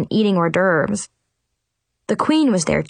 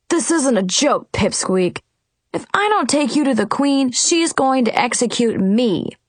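quivering voice; 5 semitones higher than usual. A narrator's reading. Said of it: "he said in a quivering voice".

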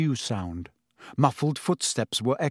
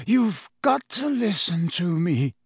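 urgent plea, slightly raised; 5 semitones higher than usual. Acted. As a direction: press him to listen. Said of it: "a note of urgency in his voice".

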